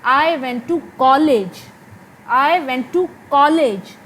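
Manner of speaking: slow, "college" stressed, falling; weight on "college"; focus on college. Shown as a demonstration. Teacher repeating the focus on "college". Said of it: "मैं कॉलेज गई थी और कहीं नहीं गई थी".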